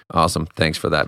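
dry it out, flat sarcasm; sarcastic wife. Retold or imitated. Wife mocking dad over the water bottle, sarcastic. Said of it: "My wife was like".

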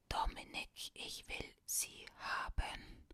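slow, breathless, strained whisper; barely able to speak; caller with last strength. Acted. Father plays a dying caller, slow gasping threat. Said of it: "mit allerletzter Kraft zu sprechen".

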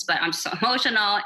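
a laugh breaks into the word; laughing mid-word. Real, not acted. Guest laughing at her own hormones, laughing mid-phrase. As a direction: laugh at yourself as you say it. Says it twice, laughs second time.

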